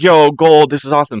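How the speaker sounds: high, loud hammed-up glee; mock-delighted king. Storyteller voices king finding the gold, playfully excited. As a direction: imitate a greedy king thrilled at his haul.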